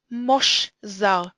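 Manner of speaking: mosh zar with an o in mosh; kametz as o. Shown as a demonstration. Teacher reading out a Hebrew example, o in mosh zar. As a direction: say "mosh" as a closed syllable with o, then "zar". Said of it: "sounds like an o".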